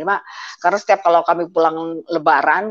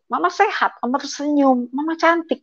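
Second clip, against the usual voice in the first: lightly voiced little child, a bit higher; sweet child's voice; 8 semitones higher than usual. Child's words quoted lovingly.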